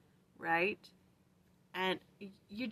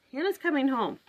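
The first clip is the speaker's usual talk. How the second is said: excited announcement; 10 semitones higher, 8 dB louder than usual. Real, not acted. Urging kids to get ready.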